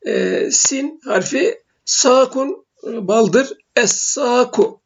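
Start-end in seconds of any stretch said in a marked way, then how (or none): 3.8-4.8 slow "es-saku" with a held double S; silent lam, doubled S. Shown as a demonstration. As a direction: draw out "es-saku", no L in the article, S doubled. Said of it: "sin iki defa şeddeli okunuyor".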